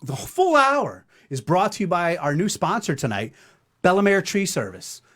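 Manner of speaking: sponsor read. Acted. Host thanking the show's new sponsor, punchy ad read. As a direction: announce tonight's sponsor with a punch.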